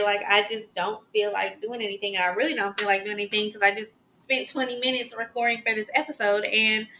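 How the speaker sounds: usual speaking voice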